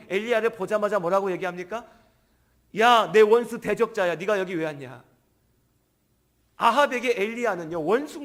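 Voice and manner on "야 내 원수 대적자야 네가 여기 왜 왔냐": hostile shout. Acted. King shouts at enemy prophet.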